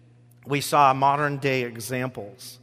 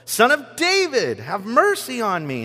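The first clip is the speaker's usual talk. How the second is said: higher, louder, more desperate plea; shouting all the more; 8 semitones higher, 4 dB louder than usual. A narrator's reading. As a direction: cry out even harder than the first time. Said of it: "he shouted all the more".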